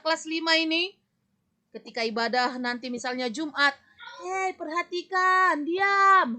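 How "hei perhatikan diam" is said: bossy scolding classmate. Acted. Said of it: "Itu tidak hebat".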